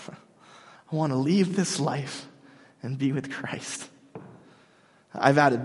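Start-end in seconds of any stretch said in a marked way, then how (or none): 0.1-3.9 longing Paul. Retold or imitated. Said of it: "What else does he say?".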